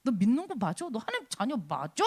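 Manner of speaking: acted taunts, needling a believer; mocking. The world questions a Christian's worth, mocking. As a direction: belittle them with jeering questions. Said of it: "세상이 우리를 조롱하는 거는 어떻게 조롱합니까?".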